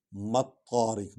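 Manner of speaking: ما الطارق recited slowly, meem joined straight onto the doubled ṭa; tajweed demo of ما الطارق, ṭa said twice; Quranic recitation demo. Shown as a demonstration. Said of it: "میم اور توئے کو اکٹھے".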